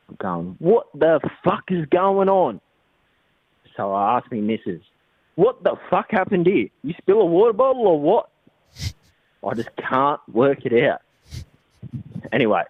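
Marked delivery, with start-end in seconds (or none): 0.6-2.6 higher, slower incredulous question; replayed bewildered demand for answers; retold bafflement. Retelling his baffled morning reaction. 5.4-8.3 high-pitched, bewildered quizzing; acted-out disbelief, pitched well up; retold incredulous questioning. Retelling his questioning of his missus.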